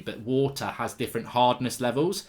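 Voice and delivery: ordinary talk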